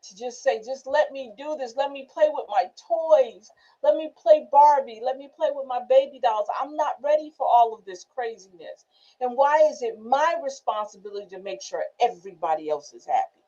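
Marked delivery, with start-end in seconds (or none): 0.6-8.8 a hint of a child begging to play; little girl. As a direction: plead like a small girl. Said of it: "like a little girl just crying".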